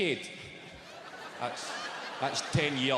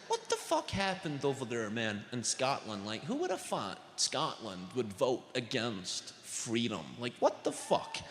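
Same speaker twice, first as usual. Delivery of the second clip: put-on American accent; 5 semitones lower, 5 dB quieter, slower than usual. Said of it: "And the guy goes".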